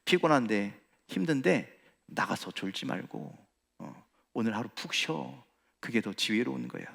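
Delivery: soft tempting whisper. Retold or imitated. Preacher voicing Satan luring tired believers, soft and coaxing. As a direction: talk them into staying home, gently. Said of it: "속삭입니다".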